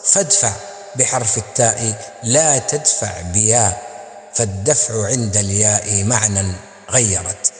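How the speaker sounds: measured, chanted poem recital; Arabic didactic verse recital; poem recitation. Acted.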